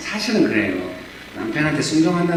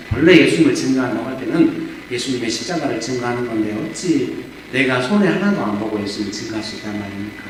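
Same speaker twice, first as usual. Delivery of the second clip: usual speaking voice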